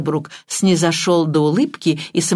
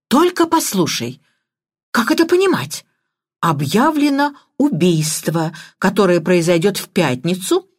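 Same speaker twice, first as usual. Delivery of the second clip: excited, out of breath. Acted. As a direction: gasp it out in a flutter. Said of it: "взволнованно выдохнула Мерготроид". (взволнованно, запыхавшись)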